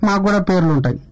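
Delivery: coy, shy candidate asking for votes; candidate character. Acted. (సిగ్గుపడే అభ్యర్థి పాత్ర, మెల్లగా)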